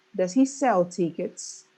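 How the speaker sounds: slow question, emphasis on "sell" and "tickets"; weak "Does", firm "sell" and "tickets"; stress on SELL, TICKETS. Shown as a demonstration. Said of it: "they put a stress only in this".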